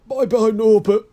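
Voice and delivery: high, loud sobbing goodbye; sobbing farewell. A narrator's reading. Hagrid sobbing goodbye to his dragon, high and loud. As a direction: wail it like a parent losing a child. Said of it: "Hagrid sobbed".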